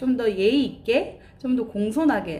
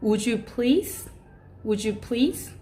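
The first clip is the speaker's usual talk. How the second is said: polite request; much slower than usual. Shown as a demonstration. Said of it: "이렇게 말씀하시면 어떨까요".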